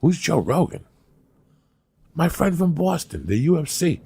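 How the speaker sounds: high, incredulous back-and-forth; acted bafflement. Waking man asks about his famous friends, high and bewildered. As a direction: act out baffled questions, pitched well up. Acts out imagined baffled wake-up exchange.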